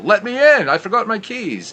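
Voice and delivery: high, loud pleading voice; program manager impression. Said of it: "you were impersonating the program manager".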